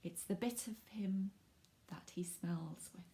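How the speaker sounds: unvoiced hushed aside; secretive whisper. Real, not acted. Presenter whispering a hint to watching children. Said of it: "I'll give you a clue".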